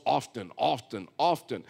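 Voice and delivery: OFTEN said with a clearly sounded T. Retold or imitated. Preacher imitates a game warden saying often, T sounded. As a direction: say often as OFF-TEN, hitting the T. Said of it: "he keeps saying the word often".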